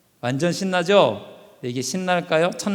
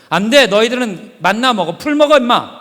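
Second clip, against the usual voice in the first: louder, gruff mock scolding; God scolding; 2 semitones higher, 4 dB louder than usual. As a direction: brush off the nagging people.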